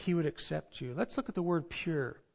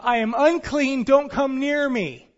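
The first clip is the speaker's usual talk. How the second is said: higher, louder warning cry; sermon-style mock leper cry; leper's shout; 7 semitones higher, 8 dB louder than usual. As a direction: shout to keep healthy people away. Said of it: "you also have to shout".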